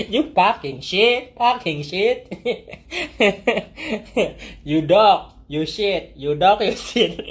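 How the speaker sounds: slow, drawn-out domineering insults; slow, stern dominatrix jabs with a laugh breaking in; demanding insults. Shown as a demonstration. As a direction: make each insult a command. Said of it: "Jadi harus demanding gitu loh".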